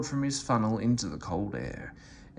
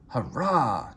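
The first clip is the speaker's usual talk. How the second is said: excited. Acted. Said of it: "cried Henry, excited".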